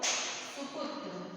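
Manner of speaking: सुपुत्र spoken slowly, each short u clear; careful pronunciation. Shown as a demonstration. Teacher slowing down सुपुत्र for students to hear short u. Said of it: "उच्चारण वर्तनी दोनों एक".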